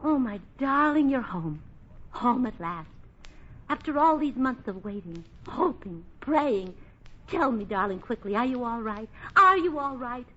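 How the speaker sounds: overwrought stage heroine greeting a soldier; mock-tragic lover, a touch breathy with worry; hammed-up melodrama. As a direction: gush it like a bad wartime weepie. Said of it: "run the entire gamut of emotions".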